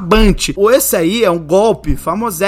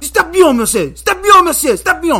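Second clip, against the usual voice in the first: high, frantic mock French protest; makeshift French; 7 semitones higher than usual. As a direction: fend someone off in broken, hammed-up French. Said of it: "Mandei um francesão". (francesão improvisado, agudo e exaltado)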